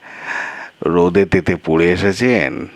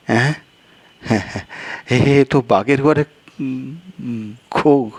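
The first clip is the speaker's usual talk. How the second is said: a second character pitched higher, exasperated; higher-voiced guest; 8 semitones higher, slower than usual. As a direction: play the flustered guest, voice raised in pitch.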